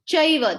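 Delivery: "chaiva" beginning with a ch sound. Shown as a demonstration. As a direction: correct to "chaiva", with ch as in church. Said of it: "That C means cha".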